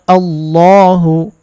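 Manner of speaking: আল্লাহু with a full heavy dark ল, drawn slowly; heavy Allah. Shown as a demonstration. Teacher showing the heavy lam in Allah to viewers, slow and full. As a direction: thicken the ল in আল্লাহু. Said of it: "আল্লাহ শব্দকে মোটা করতে হবে".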